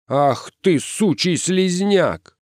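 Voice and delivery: high voice, drawn-out insult; angry cursing. A narrator's reading. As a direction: hurl abuse mid-scuffle. Ответная брань в драке.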